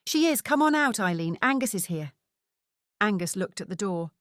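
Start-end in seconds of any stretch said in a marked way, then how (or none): 0.1-2.1 put-on calling into the van in a Scottish accent; a hearty Scottish dad calling his wife. Father calls his wife out of the van, Scottish accent. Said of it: "in his strong Scottish accent".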